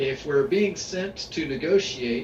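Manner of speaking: usual speaking voice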